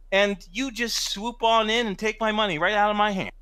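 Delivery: aggrieved working man picking a fight; cocky, accusing tough guy; puffed-up bully. Acted. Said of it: "he points to Al and he goes".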